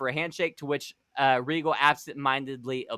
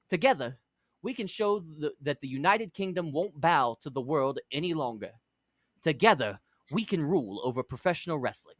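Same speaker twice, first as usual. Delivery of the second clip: put-on British accent. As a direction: play a courtly English villain, overly polite. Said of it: "keep doing it".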